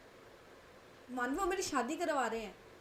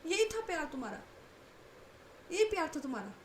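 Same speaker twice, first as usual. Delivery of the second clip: high, shrill-free indignant outburst, much higher; outraged disbelief; 8 semitones higher than usual. Acted. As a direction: protest in shock and hurt. Kanak outraged at Manvi's advice.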